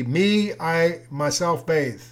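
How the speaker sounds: "I, myself bathe" said slowly word by word; careful word-for-word rendering; slow literal gloss. Shown as a demonstration. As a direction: spell out the literal translation deliberately. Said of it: "if you translated that literally".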